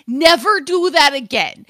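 loud, stern mock warning; exasperated retold order; retold yell. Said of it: "I yell at her all the time".

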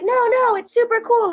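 high, breezy mock-reassuring voice; imitated reassurance. Cellist reassuring fan, acted out.

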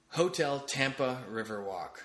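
slow, stretched-out venue name; drawn-out announcement. Real, not acted. Podcaster plugging his trivia night venue, drawn-out announcement.

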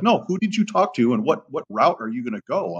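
high-pitched, insistent demand; retold irritation. Trainer demands to know the handler's route, irritated. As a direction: re-enact pressing for an answer, annoyed. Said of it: "now I'm kinda pissed".

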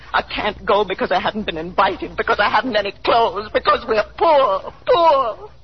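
slowing as she breaks down, sobbing on poor; breaking into sobs. Acted. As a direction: voice cracks into crying on the last words. Mother voicing daughter's hidden despair.

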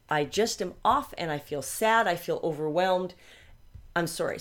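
breathy, near-tears whisper of sorrow; teary whisper. Retold or imitated. Retelling crying to husband.

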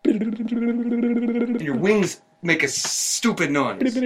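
high slow yelling; shouting after it. Acted. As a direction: yell at a flying pest. Creature flies off, Dan yells.

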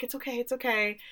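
hushed retold reassurance; soothing. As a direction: gently reassure in a soft, lifted voice. Millie comforting Howie in retelling.

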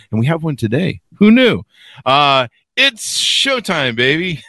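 big-top announcer, grand and showy; ringmaster. Acted. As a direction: roll up, roll up circus host. Circus-style show opening.

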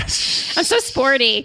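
slow, laughing self-mockery; drawn out, sarcastic. Real, not acted. Self-mocking joke, laughing.

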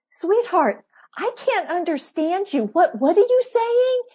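playful mock-bewildered mom voice; mock puzzlement. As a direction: sweetly pretend not to understand. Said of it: "I would go".

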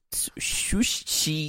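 exaggerated drawn-out whisper of Sushi; hissed whisper. Host quoting a comedy show to co-host, hissy whisper. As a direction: whisper it with long hissing sounds.

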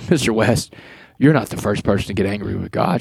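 imitating an unruffled older chaplain; calm reassurance. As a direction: settle him down gently, understated. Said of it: "she's just real calm".

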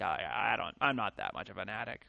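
low, mumbled excuses of an addict; a lightly voiced addict in denial; mock addict denial. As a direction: play a sheepish addict brushing it off. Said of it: "The drug addict".

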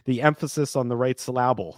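"emphasis" as em-PHA-sis, "syllable" as syl-LA-ble; "emphasis" and "syllable" each stressed on the second syllable; joking misplaced stress. Shown as a demonstration. Joke about where stress falls.

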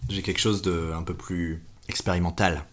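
suave voice. Acted. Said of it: "Il a une voix très suave".

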